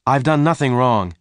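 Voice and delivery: put-on high, loud young man protesting; indignant captive. A narrator's reading. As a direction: protest your innocence forcefully. Captive defends himself to stranger.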